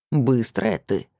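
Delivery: low male voice through clenched teeth. A narrator's reading. Ex-husband grabbing his former wife, low through the teeth. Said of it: "процедил он".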